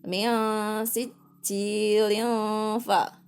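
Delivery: slow teacher's model of "sicil ya fa"; two-beat joined recitation. Shown as a demonstration. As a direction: chant "sicil ya fa" linked, "ci" kept to two beats. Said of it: "tapi hanya dibaca dua".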